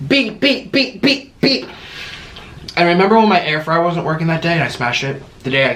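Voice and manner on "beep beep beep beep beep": high mock censor beeps in place of swearing. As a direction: squeak out censor bleeps. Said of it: "I said a bunch of curse words".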